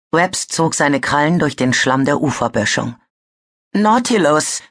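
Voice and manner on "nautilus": trembling with fear. A narrator's reading. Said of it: "hasste das ängstliche Zittern in seiner Stimme".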